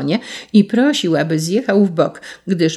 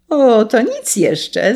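slow, raised taunting call; 5 semitones higher, 3 dB louder, slower than usual. A narrator's reading. Sparrow warns the carter of more revenge, calling out. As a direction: call it out high, stretching the words. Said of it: "zawołał wróbel".

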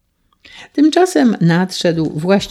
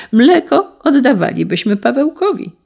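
eager exclaim; 7 semitones higher, 4 dB louder than usual. A narrator's reading. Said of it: "zawołał Karolek".

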